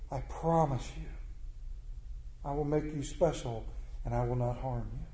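soft, low, reassuring snake; coaxing promise. Acted. Snake coaxes the youth to carry it, soft and reassuring. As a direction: promise gently, sinking low and quiet.

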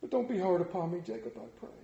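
quick plea sinking to a breath; a scared plea fading to a whisper; pleading. Acted. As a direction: beg him, voice giving out. Scrooge pleads.

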